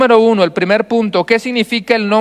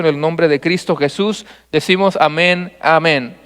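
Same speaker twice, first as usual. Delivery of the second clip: prayer; 3 semitones lower than usual. Acted. Opening prayer before the sermon.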